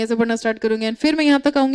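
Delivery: rocket-speed reading demo. Shown as a demonstration. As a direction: rush through it fast. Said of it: "मैं rocket speed से उसको ऐसे पढूं".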